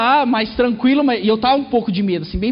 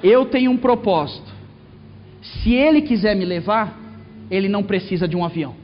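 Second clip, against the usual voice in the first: calm father; 3 semitones lower than usual. Retold or imitated.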